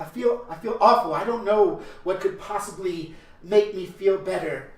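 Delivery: hammed-up lament. Friar hams up his grief.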